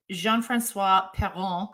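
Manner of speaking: slow, drawn-out French Canadian accent. Shown as a demonstration. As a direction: say the name like a Québécois. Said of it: "I did my French Canadian accent".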